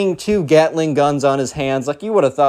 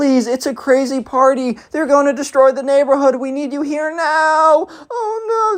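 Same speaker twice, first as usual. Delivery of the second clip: very high, overwrought fake sobbing; 11 semitones higher than usual. Retelling a neighbor's panicked call to police: imitating fake crying. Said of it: "fake crying bit".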